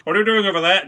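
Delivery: farmer horse voice. Pretend.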